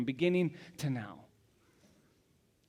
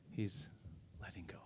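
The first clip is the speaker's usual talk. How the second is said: fading; 9 semitones lower, 18 dB quieter than usual. Real, not acted. Repeated, fading further.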